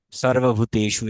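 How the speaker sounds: 'sarvabhuteshu' for সর্বভূতেষু, long 'e'; Sanskrit dental s. Shown as a demonstration. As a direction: true 's' opening সর্বভূতেষু. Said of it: "এভাবে". (সংস্কৃত উচ্চারণে সর্বভূতেষু)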